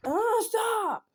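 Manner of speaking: high-pitched retold protest; not quite a yell. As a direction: cry out in exasperation without fully yelling. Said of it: "I didn't, like, really yell it".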